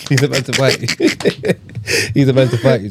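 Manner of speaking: giggling repetition; laughing. Real, not acted. Friends recalling the coach, laughing. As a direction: chuckle through the line. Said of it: "repeats the line laughing".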